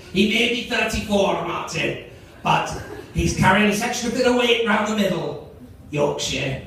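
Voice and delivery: lightly voiced Scottish sports analyst; attempted Scottish accent. Comedian retrying his analyst for Martin, a faltering Scottish accent. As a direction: have another go at Scottish, wandering towards Yorkshire. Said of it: "Imagine he sounds Scottish".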